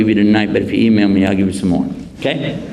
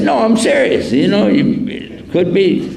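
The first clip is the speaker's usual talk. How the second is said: higher, mock-earnest retort; mock serious; 8 semitones higher than usual. Teasing the driver about his god, mock serious. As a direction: fake sincerity to tease the driver. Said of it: "I was real serious".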